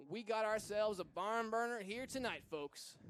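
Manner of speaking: lightly put-on Southern twang; Southern accent. Commentator telling folks it's a barn burner, light Southern accent. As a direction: slip into a hint of folksy Southern announcer. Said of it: "I'm talking in a Southern accent".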